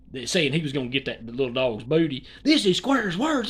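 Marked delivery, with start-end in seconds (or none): 2.4-3.5 emphatic aside. Real, not acted.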